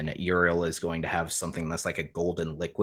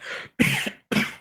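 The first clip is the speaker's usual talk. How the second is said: cough. Acted. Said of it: "Uriel is just gonna kinda, like, cough".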